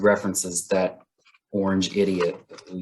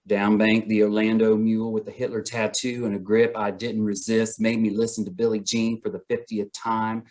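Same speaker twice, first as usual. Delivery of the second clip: really fast reading. Acted. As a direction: square dance caller's pace. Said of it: "have to read it really fast".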